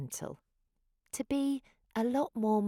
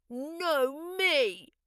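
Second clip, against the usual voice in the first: higher, louder quick protest; arguing little dinosaur; 9 semitones higher, 4 dB louder than usual. A narrator's reading. Second dinosaur contesting the turn, loud and higher. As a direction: snap back over a rival. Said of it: "replied another".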